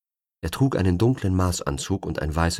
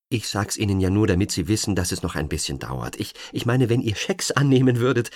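nervous; 3 semitones higher than usual. Acted. Nervous agent pleading.

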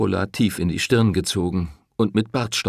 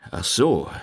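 stammering; slower than usual. Acted. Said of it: "stammelte der Pfarrer".

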